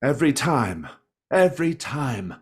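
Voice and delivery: high, loud, falling exclamations; indignant complaint. Acted. Tavern keeper robbed of every shipment, angry complaint. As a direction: hammer it out in outrage. Old man rants about stolen ale.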